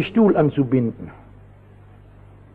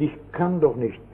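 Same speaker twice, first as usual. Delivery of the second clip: shaken echo; 3 semitones lower, 7 dB quieter than usual. Retold or imitated. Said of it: "Erschütternd".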